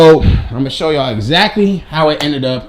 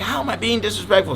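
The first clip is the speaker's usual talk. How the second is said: mildly mimicked indignation; 6 semitones higher, 3 dB quieter than usual. Quoting her as soon as he tells her, mildly indignant. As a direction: lightly imitate an offended girl. Mimics the girl's question again, milder.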